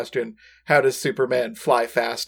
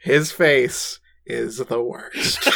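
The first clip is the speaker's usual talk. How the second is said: Brad Neely impression; much slower than usual. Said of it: "It's totally Brad Neely".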